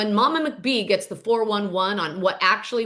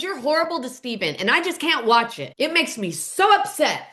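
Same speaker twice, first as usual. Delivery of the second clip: mock upset; 3 semitones higher than usual. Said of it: "he storms off".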